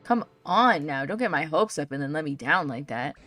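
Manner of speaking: Chef Dente. Acted. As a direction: complain like a let-down chef. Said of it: "I think this is Chef Dente".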